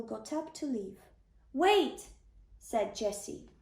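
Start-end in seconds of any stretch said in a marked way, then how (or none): 1.5-2.1 a sudden, higher, louder call to stop him; urgent call. Acted. Jesse calls Samuel back before he leaves, urgent higher call. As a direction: call out to stop the prophet leaving.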